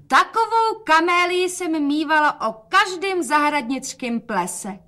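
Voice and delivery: calling out. A narrator's reading. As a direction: call out brightly over the room. (matka volá nadšeně)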